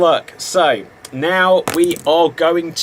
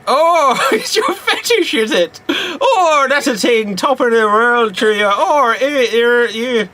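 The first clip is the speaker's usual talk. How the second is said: cheeky chimney-sweep accent, hammed up; Dick Van Dyke cockney; 7 semitones higher than usual. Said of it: "Hello, Mary Poppins".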